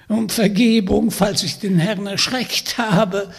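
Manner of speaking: put-on high, loud croaky old witch voice; croaking witch. Witch inviting Vanya home, croaking and sly. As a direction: play the sly old hag inviting him along.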